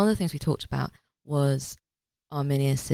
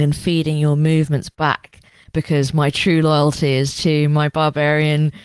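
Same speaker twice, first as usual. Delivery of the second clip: mock-incredulous, laughing it off; mocking incredulous joke. Arminius mocking his own plan to Varus, incredulous. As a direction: scoff at the plan as if it's absurd. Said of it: "but like it's a joke, and says".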